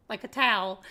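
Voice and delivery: towel as a single syllable, like "tal"; Southern pronunciation. Shown as a demonstration. Southerner repeating what we call a towel, Southern pronunciation. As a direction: run towel together into one Southern syllable. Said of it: "We call it a towel".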